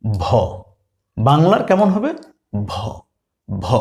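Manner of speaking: ভ said as Bengali ভ; v sound demo. Shown as a demonstration. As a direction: say ভ plainly, twice. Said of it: "ভি".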